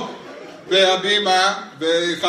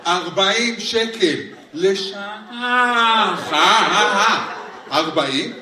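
very slow, drawn-out reading of the price; stunned disbelief; 3 semitones higher, much slower than usual. Acted. Comic recalling the parking sign, slow and stunned. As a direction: read the sign slowly in shock.

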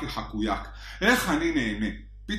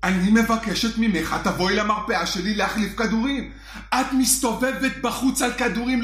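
French psychiatrist; 5 semitones higher than usual. Retold or imitated. French psychiatrist warning his patient, in a French accent. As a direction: lay on a French accent, grave. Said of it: "צרפתי שמדבר אליי בלשון נקבה".

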